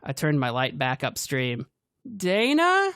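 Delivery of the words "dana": high, loud call. A narrator's reading. Ash and Dana calling, high and loud. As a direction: call into the woods.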